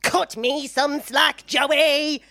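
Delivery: slow, drawn-out whine; mock his self-pity; mock whiny teen plea; whiny Dawson.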